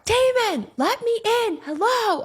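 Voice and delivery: high, loud, plaintive call; calling through the door. Retold or imitated. Locked outside at one in the morning, calling Damon to let her in.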